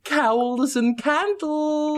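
slow, creepy plotting; sinister cult voice. Pretend. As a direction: savour each word like a villain.

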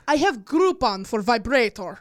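Russian accent. Shown as a demonstration. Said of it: "Your last one is Russian".

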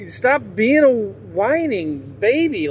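slow, high put-on scolding voice; mock drill sergeant. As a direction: sneer it like a drill sergeant at a recruit. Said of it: "wanna be that Marine drill sergeant".

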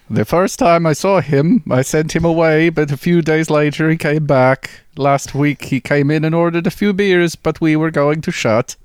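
put-on light Dutch accent, bartender voice; a hint of a Dutch bar owner accent. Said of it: "Okay, Dutch bartender".

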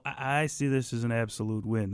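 soft, airy throat voice; breathy back-of-throat impression; Mark Ruffalo voice. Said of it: "it becomes Mark Ruffalo".

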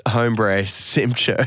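slow, bad cartoon-dad impression; Homer Simpson. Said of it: "That's Homer Simpson".

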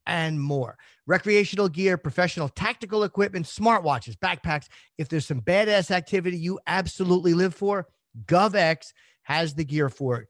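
upbeat host-read sponsor spot. Acted. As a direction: sell it like a podcast ad.

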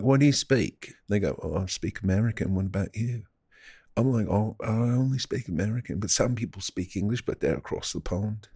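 put-on British wanker accent; mock British accent. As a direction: talk casually in a hammed-up British accent.

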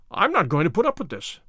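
ordinary delivery

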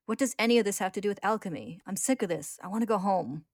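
put-on a kid snapping after too many hungry days; suddenly angry. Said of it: "He grows suddenly angry".

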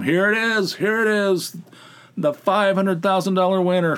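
high-pitched, giddy self-quote; hopeful excitement. Retold or imitated. Gambler sure this ticket is the winner, giddily excited. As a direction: crow as if the jackpot is already here. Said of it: "I go from".

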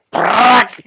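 loud sudden fart sound with the mouth; imitated fart noise.

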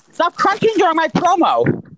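exasperated, drawn-out scolding; high-pitched, irritated complaint; annoyed. Real, not acted. Annoyed at co-host crunching.

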